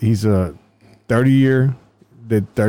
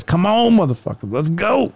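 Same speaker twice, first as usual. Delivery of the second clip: higher mock tough-guy challenge; picking a fight; 8 semitones higher than usual. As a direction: taunt like a tiny boxer squaring up. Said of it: "went to a fucking boxing stance and says".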